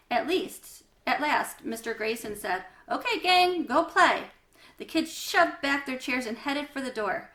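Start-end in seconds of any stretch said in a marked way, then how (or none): 2.9-4.2 louder, higher call to the class; teacher calling out, louder. A narrator's reading. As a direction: release the kids to recess.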